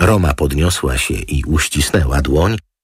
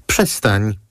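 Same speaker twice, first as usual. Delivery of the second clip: higher, mildly huffy; a touch of scorn; snorting dismissal; 7 semitones higher than usual. A narrator's reading. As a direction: brush it off with a huff. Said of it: "prychnął anioł".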